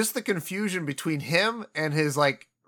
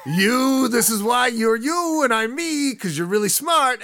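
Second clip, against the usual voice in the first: higher, louder mock fury; mock pissed rant; 7 semitones higher, 6 dB louder, slower than usual. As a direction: sputter it like a furious mobster. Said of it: "he looks like he's really pissed".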